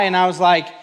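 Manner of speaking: ordinary delivery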